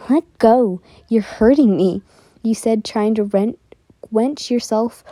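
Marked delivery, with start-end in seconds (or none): 0.1-2.0 louder, insistent demand to be released; mock-distressed protest, voice raised; urgent protest. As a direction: protest loudly at being grabbed. Acted plea while being grabbed.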